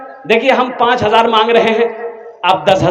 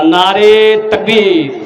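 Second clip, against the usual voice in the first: slow drawn-out call to the crowd; slow rallying cry, words pulled long; slogan call; much slower than usual. Real, not acted. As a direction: stretch the call out for the crowd to answer.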